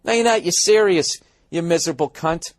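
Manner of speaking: high-pitched, acted indignation; exasperated comeback to a phony; indignant retort. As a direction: snap back in mock outrage, pitch leaping up. Angry retort to absent driver.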